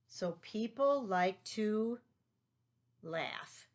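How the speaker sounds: people like to drawn out slowly, laugh dropped to a whisper; teacher letting children fill the blank; suspense pause. Shown as a demonstration. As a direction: hold the gap, then whisper the answer. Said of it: "cloze sentence with a pause".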